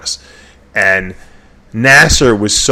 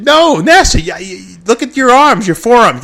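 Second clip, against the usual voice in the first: excited flattery; 11 semitones higher, 5 dB louder, slower than usual. Real, not acted.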